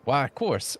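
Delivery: mild agreement. Acted. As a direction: agree readily but gently. Florist gratefully agrees, first take.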